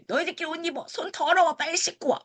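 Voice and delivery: high, curt orders; cold dismissive teacher. Retold or imitated. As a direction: brush the kids off coldly. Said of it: "막 이런 식으로 표현하신 거예요". (차갑고 쌀쌀맞게 지시하듯)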